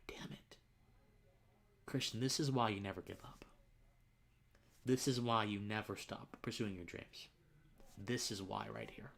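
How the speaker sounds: hushed self-talk, welling up; moved, starting under the breath; emotional. Real, not acted. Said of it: "I'm getting a little bit emotional".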